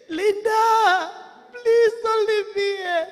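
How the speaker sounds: mild drawn-out plea; pleading wail. Acted. Dead friend begs Linda from hell, mildly wailing. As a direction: beg slowly, with a touch of anguish.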